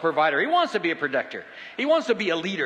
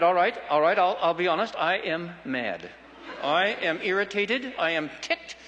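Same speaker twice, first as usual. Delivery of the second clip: measured, candid I am mad; honest admission. Retold or imitated. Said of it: "And I said".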